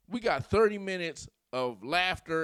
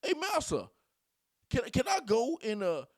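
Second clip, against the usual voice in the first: mock servant pleading, ending in a fake cry; mock pleading slave; 9 semitones higher than usual. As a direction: ham up a begging, frightened servant. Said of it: "Sound like a slave out here".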